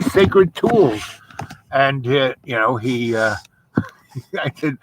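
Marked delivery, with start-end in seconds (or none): 0.0-1.0 slow, drawn-out mock reverence; milk the word sacred slowly; mock solemn. Telling his laughing friend, drawn-out mock reverence. Defends orange tools to friend.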